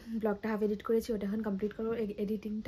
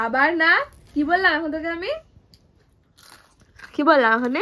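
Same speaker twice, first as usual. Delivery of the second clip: scolding; 6 semitones higher, 12 dB louder than usual. Real, not acted. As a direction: tell her off loudly, half-exasperated. Scolding the student for refusing food.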